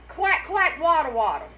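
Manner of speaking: quack, quack pitched high, playful duck imitation; lightly hammed-up duck sounds; mock duck waddle. Shown as a demonstration. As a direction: mimic a duck to show the waddle. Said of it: "I walk like this".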